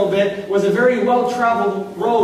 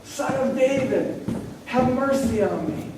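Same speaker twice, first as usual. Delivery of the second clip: softer plea; 2 semitones higher, 5 dB quieter than usual. Retold or imitated. Quieter repeat of the cry.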